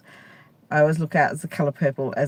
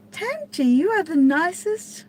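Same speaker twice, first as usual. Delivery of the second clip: squealed much higher, drawn out; gushing; 13 semitones higher than usual. Real, not acted. To viewer Tam G after a kind comment, a high delighted squeal.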